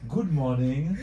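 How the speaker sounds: loud, bright-eyed show greeting; big greeting. Real, not acted. Host opening the live stream to viewers, loud cheerful greeting. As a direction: open the broadcast with a beaming good morning.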